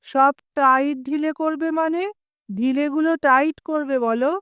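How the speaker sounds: "সব" lifted high in mild surprise; startled question. Acted. Biswanath, startled by the mason's words, asks in surprise. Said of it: "Biswanath চমকে বলেন".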